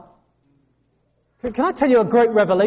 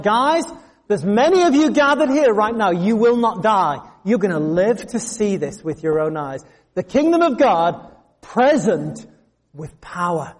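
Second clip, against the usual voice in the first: casual Jesus paraphrase. Retold or imitated. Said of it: "he's like".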